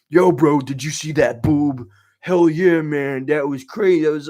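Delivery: loud, hyped redneck twang. Retold or imitated. Man hyping to his brother on the phone, loud redneck twang. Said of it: "he doesn't talk like that, more of a redneck twang".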